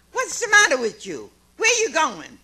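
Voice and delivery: retold scream. Harold yelling at her as she runs for the door, loud shout. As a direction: bark it out like an angry man at the door. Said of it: "he was screaming at me".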